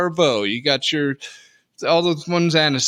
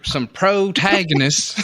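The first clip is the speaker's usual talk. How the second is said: put-on slow drawled old prospector voice; 5 semitones higher, 3 dB louder, much slower than usual. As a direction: stretch it out like a grizzled miner. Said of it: "You just sound like an old prospector".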